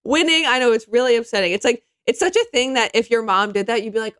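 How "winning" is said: catchphrase. Retold or imitated. Mimicking Kelly repeating her old catchphrase, punched up. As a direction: belt out Winning like a catchphrase. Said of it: "she keeps saying "winning".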